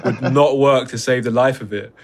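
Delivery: laughing through the words. Real, not acted. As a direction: giggle while you say it, amused. Laughing at the useless kite.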